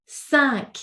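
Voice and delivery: cinq ending on a clear K; cinq, sound the last letter as K; cinq, final K said. Shown as a demonstration. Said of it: "we actually must pronounce the last letter".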